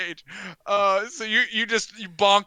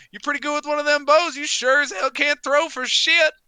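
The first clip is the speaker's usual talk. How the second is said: loud, high-pitched taunting yell; jeering heckler; 8 semitones higher, 8 dB louder than usual. Acted. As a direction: heckle at full voice from the crowd. Game master voices the heckler.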